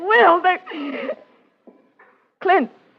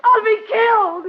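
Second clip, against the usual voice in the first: fear; 3 semitones higher than usual. Acted. Terrified woman begging detective.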